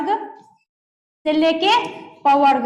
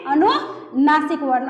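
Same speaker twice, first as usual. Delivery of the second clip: अनुनासिक वर्ण said slowly, each syllable drawn out; slow drawn-out answer; slower than usual. Shown as a demonstration. Teacher answers her own question, slowly and clearly. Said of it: "उसको हम क्या कहेंगे".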